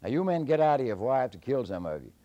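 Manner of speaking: high, loud bluffing shout; high shouted threat; hollering. Acted. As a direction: yell to fool the giant. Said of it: "and say".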